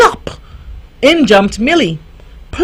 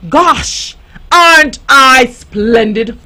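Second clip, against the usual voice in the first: vain delight; slower than usual. Acted. Vain duckling admires reflection.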